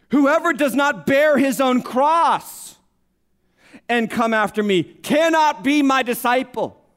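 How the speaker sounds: preacher thundering the verse; proclaiming. Acted. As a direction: hammer out each word like a verdict. Preacher proclaiming Jesus' hard words.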